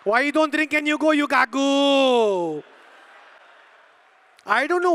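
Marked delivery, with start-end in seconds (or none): 0.0-2.6 hammed-up indignant yell; mock scolding. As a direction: scold the customer in an imitated Filipino accent. Acted outburst of the Filipino server.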